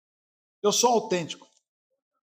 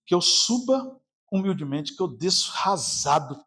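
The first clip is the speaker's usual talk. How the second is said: humble prayer; 3 semitones lower, 4 dB quieter than usual. Retold or imitated. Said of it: "eu falo".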